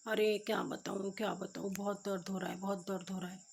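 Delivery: soft, sorry moaning; pained complaint. Retold or imitated. Beaten husband tells his wife of his pain, softly complaining.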